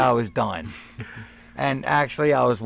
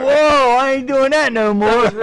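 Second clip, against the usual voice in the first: high, much louder startled cry; loud startled exclamation; loud retold yelp; 9 semitones higher, 8 dB louder than usual. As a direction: yelp in pain and swear off.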